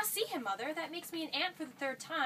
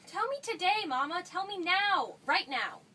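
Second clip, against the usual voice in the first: urgent pleading; 2 semitones higher, 4 dB louder, slower than usual. Acted. Daughter pleads with mother.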